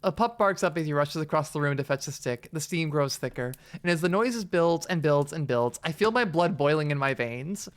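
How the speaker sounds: expressive read-aloud narrator; story narration. A narrator's reading. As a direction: narrate the mounting tension. Reads the game's narration aloud.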